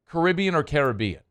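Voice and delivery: CaribBEan then CARibbean, contrasted; two pronunciations. Shown as a demonstration. Host comparing name pronunciations, two ways of saying Caribbean. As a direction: give both stress versions of Caribbean. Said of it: "said like that because it's the accent".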